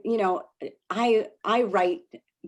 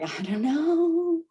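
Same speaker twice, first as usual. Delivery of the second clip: flustered newbie; 9 semitones higher, much slower than usual. Retold or imitated. Acting flustered new seller.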